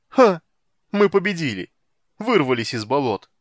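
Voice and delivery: loud jubilant cries; triumphant exclaiming. A narrator's reading. Sailor celebrates getting out of swamps, triumphant shouting. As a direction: crow over the victory. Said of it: "воскликнул Коббин".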